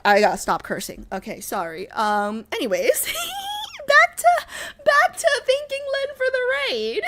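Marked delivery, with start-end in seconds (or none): 3.0-7.0 very high, squeaky laughing voice; high-pitched giggly recovery. Real, not acted. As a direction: squeeze the words out through giggles. Laughing after the outburst.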